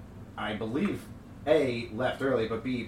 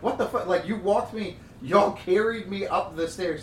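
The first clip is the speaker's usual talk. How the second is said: high, loud laughing disbelief; shocked protest, laughing; incredulous; 8 semitones higher, 5 dB louder than usual. Retold or imitated.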